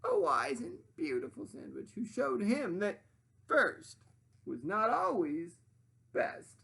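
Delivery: high, loud demanding sandwich voice; high bossy sandwich lady voice. Acted. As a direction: play the pushy sandwich, high and grand.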